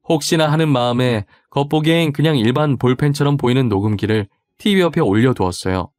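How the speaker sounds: usual speaking voice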